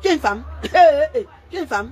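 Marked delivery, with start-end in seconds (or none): 0.5-1.3 laughing. Real, not acted. Laughs at rival. 1.5-1.9 dropped to a soft sneer; quiet mocking.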